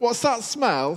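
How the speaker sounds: put-on very high, tiny little toddler voice. Retelling what is heard at home: little voice imitating Archie. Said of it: "You'll hear a little voice saying".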